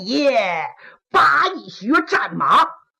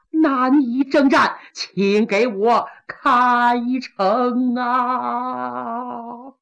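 weary plea; much slower than usual. Acted. Exhausted Qilang pleads.

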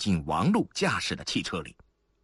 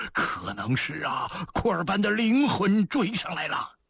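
frightened; 11 semitones higher than usual. A narrator's reading. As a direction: draw it out, then climb in fear. Frightened fugitive fears a ghost pursuing. (惊恐，先慢后尖)

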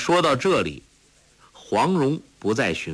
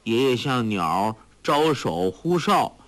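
ordinary delivery

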